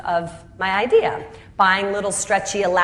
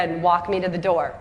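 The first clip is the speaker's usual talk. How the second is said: ordinary talk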